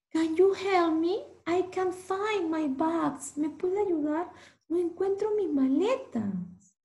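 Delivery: pleading traveller. Acted. Anthony asks for help, distressed.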